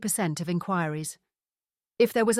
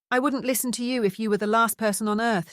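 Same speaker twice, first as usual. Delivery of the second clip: raised voice, scornful refusal; shouted retort; 3 semitones higher than usual. Acted. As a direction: shout the refusal after her. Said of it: "Charlotte shouted".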